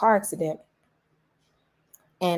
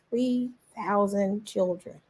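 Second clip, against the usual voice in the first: slow tearful; 2 semitones higher, 4 dB quieter, slower than usual. Retold or imitated. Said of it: "I cried 'cause I was like".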